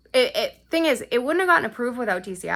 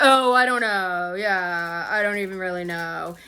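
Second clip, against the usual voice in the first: mock playing dumb; 2 semitones lower, slower than usual. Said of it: "they're playing fucking stupid".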